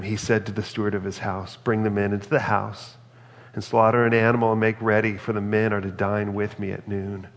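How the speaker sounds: steady, measured Bible reading voice; scripture reading. Acted. Pastor reading Genesis aloud to the church, steady and measured. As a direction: read the passage to the congregation.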